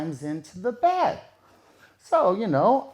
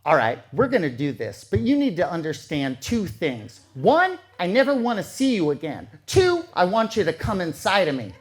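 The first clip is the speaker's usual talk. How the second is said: a touch lower, cold and commanding; completely different voice; 3 semitones lower than usual. Retold or imitated. Transformed woman on top of him setting her terms, a touch lower. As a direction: lay down the terms flatly, like a stranger. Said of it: "in a completely different voice".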